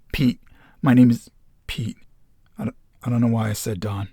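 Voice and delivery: sudden blurted correction, then rushed. A narrator's reading. Group member correcting his own false name, blurting it out. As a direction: burst out with it, then hurry on. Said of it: "Pete blurts out".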